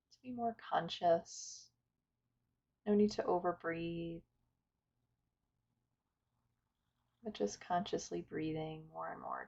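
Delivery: calm, unhurried meditation guidance with long pauses; guided meditation. Acted. Teacher inviting listeners to settle and follow the breath, guided meditation. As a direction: guide listeners gently through breath and stillness.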